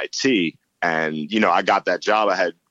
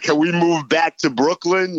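much higher-pitched retold plea; mock yelled plea; 11 semitones higher, 4 dB louder than usual. Son begging parents to move back, mock yelled plea. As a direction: imitate a kid nagging the parents. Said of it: "I would always yell at them".

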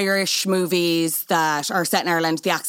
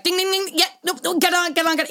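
excited mock cheering; 10 semitones higher than usual. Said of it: "we're like".

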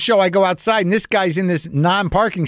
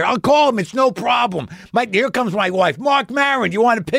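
eager fan voice; 7 semitones higher than usual. Retold or imitated. Fan pushes help and photo.

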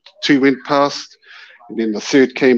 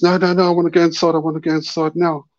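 higher, hurried insistence on leaving; reenacted urgent refusal; retold anxious refusal; 6 semitones higher, faster than usual. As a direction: protest quickly, pitch lifted. Retold refusal, wanting inside.

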